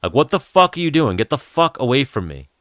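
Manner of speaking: a cop snapping at a stranger; cop yelling. Retold or imitated. A cop telling Dan Bilzerian to back off, mock yelling. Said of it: "and the cop's like".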